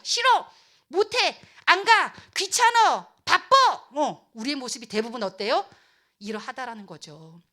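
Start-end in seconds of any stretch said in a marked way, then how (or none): 0.0-3.6 loud, high, petulant refusals; acted whiny defiance; stubborn refusal. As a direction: throw each excuse back hard. Acting out people refusing God.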